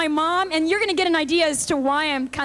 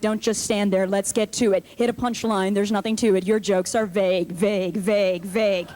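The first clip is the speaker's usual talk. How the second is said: much lower, rhythmic chant; audience heckle in song; 8 semitones lower than usual. Retold or imitated. Audience chanting at the comic, low and rhythmic. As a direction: chant it deep like a drill. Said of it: "looking at me like".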